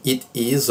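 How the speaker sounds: "It is" with a clearly sounded t; full "It is", t not softened; full unreduced form. Shown as a demonstration. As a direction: say "It is" carefully as two separate words. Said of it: "em vez de dizermos assim".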